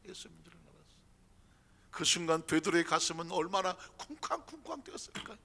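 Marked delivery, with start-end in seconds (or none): 0.1-0.9 예수님인지를 repeated much softer, nearly breathed; quiet echo. Shown as a demonstration. Preacher repeating 예수님인지를 softly to the church.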